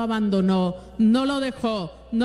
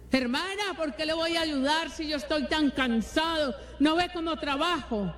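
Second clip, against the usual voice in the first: higher, softer complaining whine; grumbling husband; 5 semitones higher, 3 dB quieter than usual. Retold or imitated. Preacher imitating a tired husband refusing his wife, higher, softer whine.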